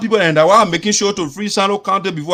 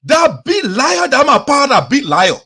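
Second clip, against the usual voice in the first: higher, drawn-out mock outrage; Creighton Duncan accusing; 5 semitones higher, slower than usual. Host retelling lawmaker's comeback about a liar, mock indignant accusation. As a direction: imitate an indignant rival, pitch jumping up. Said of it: "So Creighton Duncan get bent. Say".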